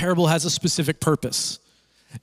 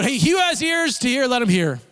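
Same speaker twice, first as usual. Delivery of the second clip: high-pitched mock call to a crowd; raised-pitch imitation of calling out; retold yell; 6 semitones higher than usual. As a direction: call it out high, without a full shout. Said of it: "he yells out".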